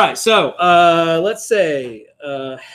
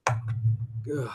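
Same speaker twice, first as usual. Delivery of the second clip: groan; 3 semitones lower, 10 dB quieter than usual. Real, not acted. Faces another hard name.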